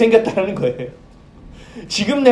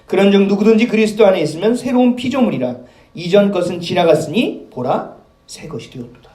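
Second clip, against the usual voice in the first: slower scripture reread. Shown as a demonstration. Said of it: "다시 한번 제가 읽어볼게요".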